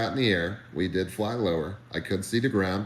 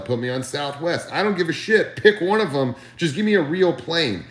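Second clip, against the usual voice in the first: higher-pitched, exasperated retold phone rant; retold loud rant; 5 semitones higher than usual. Nervous flyer pleading his case to his manager by phone, exasperated. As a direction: pile up the demands, pitched up in protest. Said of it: "I was so loud on the phone".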